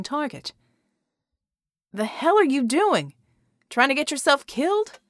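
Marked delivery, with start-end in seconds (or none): 1.9-5.0 loud, angry rebuke. A narrator's reading. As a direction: snap at her, loud and rising. Angry rebuke to reckless partner.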